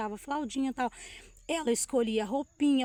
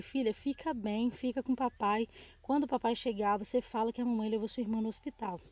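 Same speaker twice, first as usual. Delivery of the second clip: tender goodbye; 4 dB quieter than usual. Retold or imitated. Mother leaving daughter for the hospital, softly tender. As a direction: promise her all will be fine, softly.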